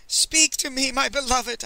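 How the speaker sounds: high, loud plea to the dead; theatrical high-pitched mourning cry; mock scream of grief. A narrator's reading. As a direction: cry out in hammed-up anguish. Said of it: "I screamed".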